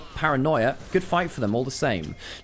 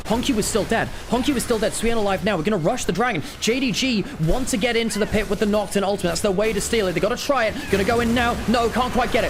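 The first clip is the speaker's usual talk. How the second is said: raised-pitch urgent esports call; live play-by-play; 6 semitones higher than usual. Real, not acted. Caster following a dragon steal attempt, excited. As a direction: call each move as it happens.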